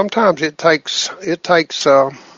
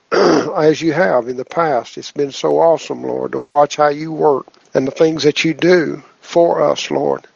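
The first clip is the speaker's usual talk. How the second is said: prayer. Acted. Leads group prayer.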